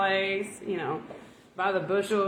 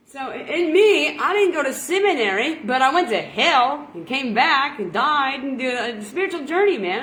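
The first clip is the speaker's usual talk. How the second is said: fervent testimony; 3 semitones higher, 4 dB louder than usual. Acted. Preaching testimony.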